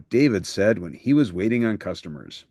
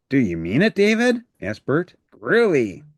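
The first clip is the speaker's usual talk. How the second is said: higher, hopeful, pitch leaps on David; eager Bert; 4 semitones higher than usual. Acted. Bert eagerly promising David to be careful. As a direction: jump at the chance, hopeful.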